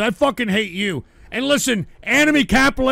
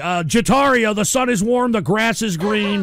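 calming mantra; 2 semitones lower than usual. Real, not acted.

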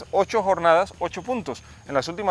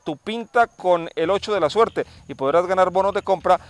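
ad read; 4 dB louder than usual. Acted. Radio ad read by host.

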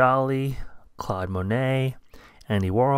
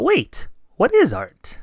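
high mouse voice; 11 semitones higher, 5 dB louder, slower than usual. Acted. Mouse character asks eagerly.

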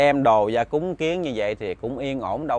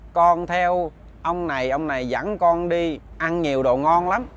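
put-on deadpan child; 4 semitones higher than usual. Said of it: "nói tỉnh bơ à".

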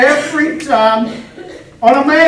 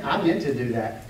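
Pee Wee Herman; 10 semitones lower, 9 dB quieter than usual. Retold or imitated. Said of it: "Pee Wee Herman".

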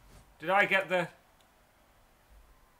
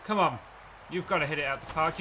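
normal talking voice

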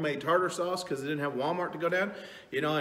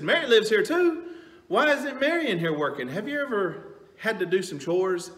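much higher, louder exasperated complaint; fed-up Martha; 6 semitones higher, 5 dB louder than usual. Retold or imitated. Martha complaining about Mary not working, loud and exasperated. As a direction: complain loudly about the sister who won't help. Martha annoyed at idle sister.

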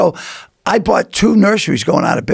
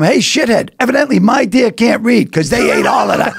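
mock yell; 3 semitones higher than usual. Retold confronting old guy.

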